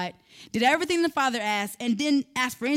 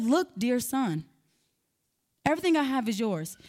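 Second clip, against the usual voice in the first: calm and gentle. Retold or imitated. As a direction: take your time and soothe him. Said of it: "in a calm, gentle manner".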